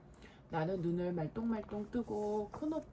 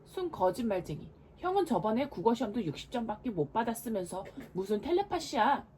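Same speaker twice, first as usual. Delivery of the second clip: indignant shout; 2 semitones higher, 5 dB louder than usual. Acted. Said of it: "분한 듯 씩씩거리며 소리쳤어요".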